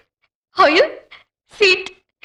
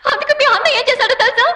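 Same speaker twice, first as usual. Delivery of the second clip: indignant question; 4 semitones higher than usual. Acted. Wife complains about his brother.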